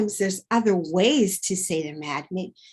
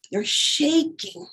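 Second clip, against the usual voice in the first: shaky high voice; 8 semitones higher, slower than usual. Shown as a demonstration.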